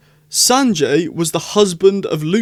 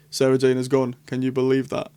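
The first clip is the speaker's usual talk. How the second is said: put-on Jodie accent; 2 semitones lower than usual. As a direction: slip into a hint of a northern English accent. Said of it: "I went all Jodie accent there".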